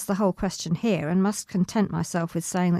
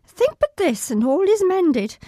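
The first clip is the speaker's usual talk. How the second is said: high, strained recitation; reciting through pain; 10 semitones higher, 5 dB louder than usual. Acted. Injured child actress reciting Puck's final speech. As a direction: push the lines out while hurting.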